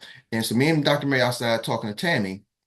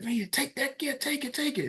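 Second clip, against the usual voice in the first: much higher, softer chanting of the crowd; urging crowd; 13 semitones higher, 7 dB quieter than usual. Retold or imitated. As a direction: egg her on like a crowd.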